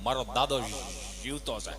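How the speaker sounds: low, soft deadpan reply; cheeky pupil. Retold or imitated. Pupil Gabha replying to the teacher, low and deadpan. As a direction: drop the voice and answer dryly. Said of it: "Gabho એવો ઈ કે".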